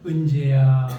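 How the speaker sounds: low, loud, drawn-out calling by name; God. Pretend. God calling a sulking believer by name, low and firm. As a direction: call out in a deep divine voice. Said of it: "하고 부르면".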